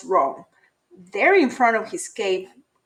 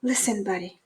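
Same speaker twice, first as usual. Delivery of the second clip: whispering; 6 dB quieter, faster than usual. Acted. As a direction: hush it close to his ear. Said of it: "They tried whispering".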